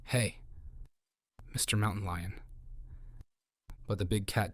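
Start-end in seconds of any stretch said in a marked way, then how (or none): 0.0-2.4 mild calm command. A narrator's reading. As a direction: say it evenly, with quiet authority. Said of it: "speaking in a calm, commanding voice".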